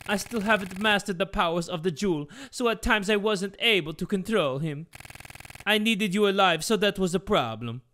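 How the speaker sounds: a hint of an accented villain; scheming father explaining himself; lightly put-on villain father voice; lightly voiced Geppetto.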